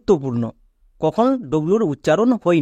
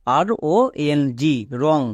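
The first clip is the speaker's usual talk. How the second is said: slow spelling out; 2 semitones lower, slower than usual. Shown as a demonstration. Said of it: "তাহলে এর উচ্চারণ কি দাঁড়াবে?".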